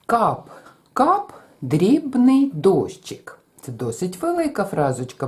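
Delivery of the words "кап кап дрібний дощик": slow, higher Кап, кап, then quick дрібний дощик; Кап, кап long, дрібний дощик in quick notes; rhythm demo. Shown as a demonstration. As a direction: drip out кап, кап like rain. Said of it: "одну фразу запишемо".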